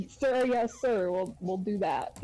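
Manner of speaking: mocking salute to a captain; mildly sarcastic obedience. Player answering the captain with a mock salute, sarcastic. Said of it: "I say it sarcastically".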